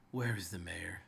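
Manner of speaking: understated, impatient commanding rider; hushed menace, spaced out with long pauses; weary-patience rider. Acted. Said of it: "My patience grows weary".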